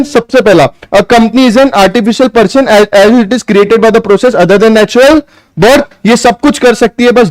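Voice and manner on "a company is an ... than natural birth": slow, word by word for note taking; dictating pace; slow dictation. Shown as a demonstration. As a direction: spell it out slowly so they can write. Dictating again to students.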